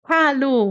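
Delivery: "hallo" with the H breathed out like fogging a glass; breathy German H. Shown as a demonstration. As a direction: push air on the H of "hallo", as if misting a window. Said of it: "como se a gente tivesse embaçando um vidro".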